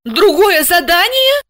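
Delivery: high woman voice, worried; alarmed Asya. Acted. Asya questioning her boss, high and alarmed.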